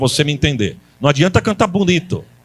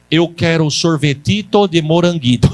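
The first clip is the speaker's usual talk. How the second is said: mock Italian. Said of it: "vou tentar pedir na língua dela".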